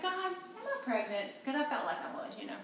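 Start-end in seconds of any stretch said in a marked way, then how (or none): 0.0-1.3 asking God. Retold or imitated. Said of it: "I said".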